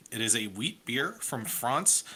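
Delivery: France said the French way; light French accent landing on the last word; put-on French accent. Shown as a demonstration. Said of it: "I don't know why I put that accent on it".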